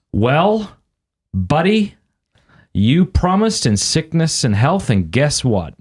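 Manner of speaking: high, slow, drawn-out mock lecture; retold blunt talking-to. Friend confronting a husband about his vows, mock lecture. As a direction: spell it out slowly to a buddy.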